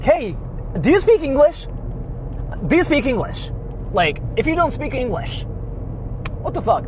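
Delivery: high sneering "do you speak English" impression; mocking pushy tourist. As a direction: parody the entitled tourist badgering her. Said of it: "asking the lady something like".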